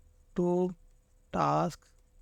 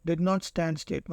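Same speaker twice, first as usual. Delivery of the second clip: slow; much slower than usual. Shown as a demonstration. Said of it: "चलो option देखते".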